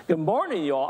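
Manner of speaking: attempted Southern US drawl. Pastor imitating the school secretary's morning announcements, attempted Southern drawl. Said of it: "most beautiful Southern drawl".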